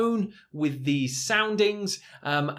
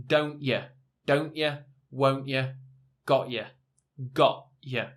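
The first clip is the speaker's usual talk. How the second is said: British accent, T in don't ya swallowed as a glottal stop. Shown as a demonstration. Teacher demos the British glottal stop on don't ya. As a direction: say don't ya the British way, T stopped in the throat. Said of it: "within a British accent".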